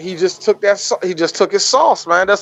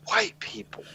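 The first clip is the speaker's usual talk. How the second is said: hushed mutter with a laugh; very soft mock-exasperated aside; silent aside; 13 dB quieter than usual. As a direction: say it under your breath, amused. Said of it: "here's me, just silently".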